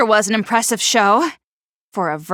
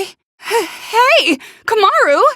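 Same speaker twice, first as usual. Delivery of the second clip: calling out; 8 semitones higher, slower than usual. Acted. Calling out to her partner.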